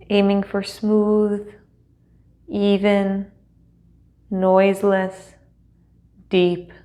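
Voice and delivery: measured, unhurried meditation guide with long pauses; guided meditation. Acted. Teacher settling students into seat and breath, guided meditation. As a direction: guide them gently into stillness, leaving space between phrases.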